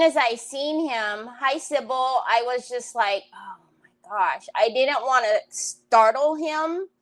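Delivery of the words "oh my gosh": whispered gasp of disbelief; under-the-breath, unvoiced whisper; hushed shock. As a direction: whisper it so nobody gets startled. Startled hush at seeing son.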